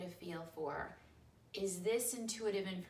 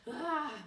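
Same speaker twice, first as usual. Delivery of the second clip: breathy mock-panic gasp, higher and louder; stressed gasp; 8 semitones higher, 7 dB louder than usual. Shown as a demonstration. Teacher showing students what stress feels like, mock-panicked gasp. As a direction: let out a tense, overwhelmed "ah".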